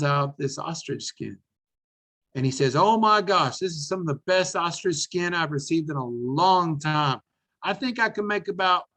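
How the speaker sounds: a lightly voiced elderly Texan hawking ostrich skin; eighty-five-year-old Emmett excitedly selling on his first video; old saddle maker. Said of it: "I'm going to reenact this".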